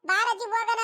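high mock-childish echo of the boy's whine; grandma mimicking the grandson's nagging. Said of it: "ಬಾರಜಿ ಹೋಗಣ ರಪ್ಪನ ಅಂತ ಹೇಳಿರೋದು".

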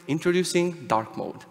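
slow, hushed mock keynote reveal; mock developer launching dark mode, slow and soft; product announcement. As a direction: unveil it like a grand product launch. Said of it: "developers like".

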